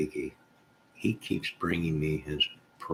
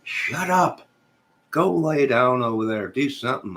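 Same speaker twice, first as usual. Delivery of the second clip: high, louder snap at the animals; scolding goats; 7 semitones higher, 5 dB louder than usual. Real, not acted. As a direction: shoo the noisy goats away.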